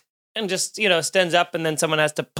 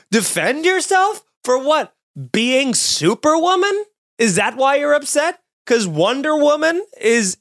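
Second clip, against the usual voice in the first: indignant rant; 4 semitones higher than usual. Real, not acted. Indignant mock outrage at man.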